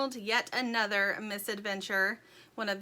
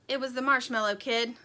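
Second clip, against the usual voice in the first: out of breath; 3 semitones higher, 3 dB louder than usual. Acted. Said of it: "still out of breath".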